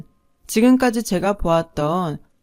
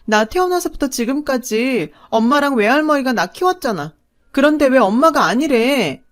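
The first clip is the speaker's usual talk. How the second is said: mild crying plea; 5 semitones higher, 4 dB louder than usual. Acted. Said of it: "엉엉 울면서 엄마한테 매달렸어요".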